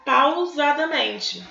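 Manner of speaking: slowed-down, deliberate word; slow and measured. Shown as a demonstration. Teacher explaining how the wife spoke, slow measured delivery. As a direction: stretch the word out to show slowness. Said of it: "Ela falou devagar".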